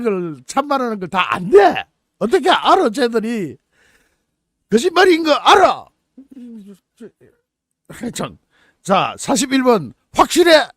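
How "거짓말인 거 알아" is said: higher, louder mock accusation. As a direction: accuse the prisoner sharply. Mock interrogation command.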